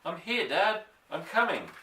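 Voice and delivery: excited call. A narrator's reading. Boy calling back excitedly.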